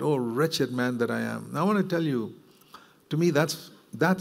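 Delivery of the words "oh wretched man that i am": slow, heavy lament over his own failings; mournful cry. Retold or imitated. A man crying out at his own wrongdoing, slow and grieving. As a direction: sigh it out slowly like a confession. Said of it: "a cry comes out".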